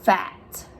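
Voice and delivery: FAT with a long, held F; F sound demo. Shown as a demonstration. Teacher shows children the lip-biting F, held at the start of FAT. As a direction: bite your lip on the F of "fat". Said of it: "Bite your lip and say".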